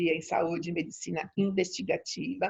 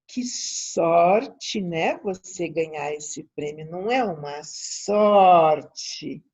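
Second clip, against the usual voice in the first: imitated colleague; much slower than usual. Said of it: "vira pra ela e faz assim".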